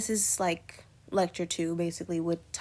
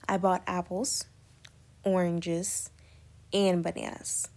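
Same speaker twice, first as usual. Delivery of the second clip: "apples," and "oranges," each ending in a clear pause before the next item; pauses at commas. Shown as a demonstration. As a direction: break the list at every comma. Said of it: "you kinda pause in between".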